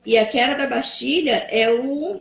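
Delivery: glitchy robotic call audio; breaking up like a bad connection. Real, not acted. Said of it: "tá robotizada".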